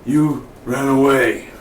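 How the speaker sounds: slow, measured villain voice; put-on slow, deliberate threat; imitating Wade's talk. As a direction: draw out each order like a pursuer. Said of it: "he talks a little bit like this".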